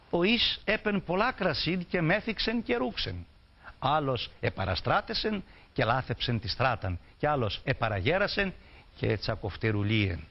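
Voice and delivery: a lecturer reciting a mournful folk song; recited folk verse. Acted. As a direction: intone the three eagles' fate.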